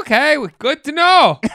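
loud, high Minnesotan sign-off; Minnesota accent. Acted. Thanking a neighbour for advice, Minnesota accent. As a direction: chirp back in a hammed-up Minnesota accent.

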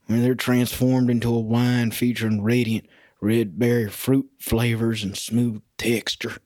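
measured, lightly affected label reading; put-on wine description read. Reads the bottle's description aloud.

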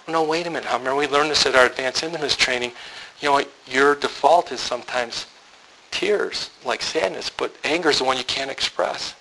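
soft, careful explaining. Retold or imitated. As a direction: gently talk her through it, hushed. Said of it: "lower my voice".

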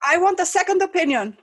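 distraught. Acted. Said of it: "the man was very distraught".

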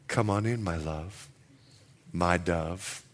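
very soft, low loving invitation; tender husband. Retold or imitated. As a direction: murmur it like a romantic husband.

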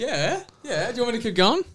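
soft, high mock Irish; quiet stage Irish; Irish accent. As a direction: murmur it in a put-on Irish voice. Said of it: "Was that Irish?".

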